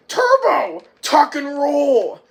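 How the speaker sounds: high, loud, drawn-out yell; urgent shouted command. Retold or imitated. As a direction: holler the instruction across a racetrack. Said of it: "Chet says".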